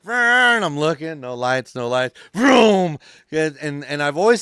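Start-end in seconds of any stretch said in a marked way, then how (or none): 0.0-0.6 loud, high car engine vroom; imitated engine roar; vroom engine noise. Mimics car speeding through intersection. 1.7-3.0 slow vroom. Retold or imitated. Blasting through unlit stop signs.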